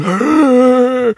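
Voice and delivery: a sudden high, loud zombie roar; zombie growl. Retold or imitated. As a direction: bark it out like a lurching zombie. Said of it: "running by the microphone going".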